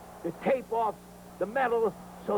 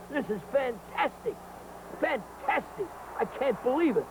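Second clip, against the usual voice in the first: getting excited; 4 semitones higher than usual. Real, not acted. TV host to wrestling fans, getting excited. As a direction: pitch climbing higher on each exclamation, fairly excited. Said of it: "I'm getting all excited".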